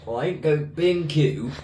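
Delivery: broad Northern English voice, half joking; northern accent. Pretend. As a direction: slip into a Yorkshire-ish twang. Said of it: "I don't know why I've gone northern".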